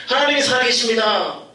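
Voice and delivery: imitating a preacher's declaration; preacher proclaiming. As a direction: proclaim like the senior pastor. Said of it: "이렇게 선포했대요".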